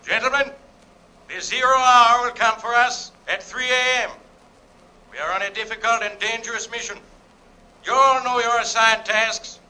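measured, solemn address to the men; composed commander's send-off; calm final address. Acted. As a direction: address the troops calmly, with clear pauses. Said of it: "calmly addressed his final remarks".

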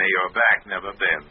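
mock-ceremonial courtly blessing; mock flattery. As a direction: needle a rival with flowery politeness. Parrots the vizier's flattery at rival.

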